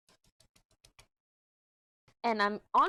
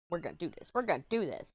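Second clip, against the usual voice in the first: hyping up; faster than usual. Retold or imitated. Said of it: "hyping myself up to leave".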